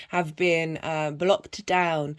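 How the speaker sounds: normal talking voice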